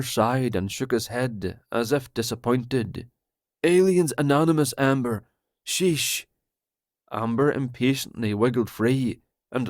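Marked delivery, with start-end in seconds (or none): 3.6-6.3 paranoid Roger. Acted. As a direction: blurt it out like a betrayed friend.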